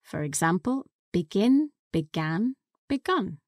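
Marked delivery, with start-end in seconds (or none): 1.1-3.4 begin, began, begun with each vowel clearly marked; vowel change demo. Shown as a demonstration. Teacher modelling begin, began, begun. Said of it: "to the vowel A in the past simple".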